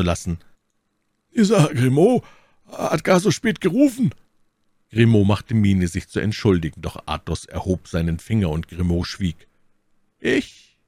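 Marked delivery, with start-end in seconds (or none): 1.3-4.1 higher, louder bad-tempered outburst; grumpy Porthos. A narrator's reading. Porthos vents his bad mood on the servant, loudly. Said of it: "rief Porthos, der große Lust hatte, seine böse Laune". 10.2-10.8 much higher, fluting Aramis voice. A narrator's reading. Aramis answers in a fluting voice. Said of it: "mit einer flötenartigen Stimme".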